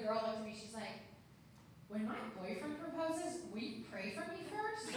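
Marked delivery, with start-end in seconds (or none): 1.9-5.0 retold wide-eyed plea; hopeful employee. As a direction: imitate a coworker asking sweetly, pitched up. Acted young employee's hopeful request.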